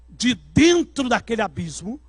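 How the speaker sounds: ordinary talk, nothing marked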